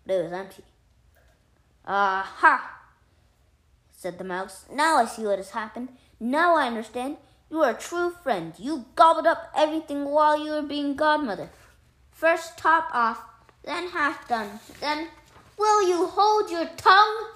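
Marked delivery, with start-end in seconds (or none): 1.8-2.8 loud exclamation of discovery; sudden realization. A narrator's reading. Mouse finds the fat pot empty, realizing. 4.7-15.1 loud, high, building outrage; indignant accusation. A narrator's reading. Mouse accuses the cat of eating everything, indignant. 15.6-17.3 very loud, high angry outburst; furious cry. A narrator's reading. Cat silences the accusing mouse, furious. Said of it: "cried the cat".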